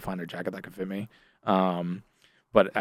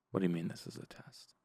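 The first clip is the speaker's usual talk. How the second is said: stunned disbelief; 15 dB quieter than usual. Retold or imitated. Her stunned reply to the reveal.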